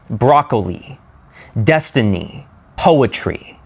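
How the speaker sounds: Broccoli, destiny, poetry, each strong on the first syllable; dactyl stress. Shown as a demonstration. Teacher giving dactyl examples, first syllables stressed. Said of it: "Next we have dactyl".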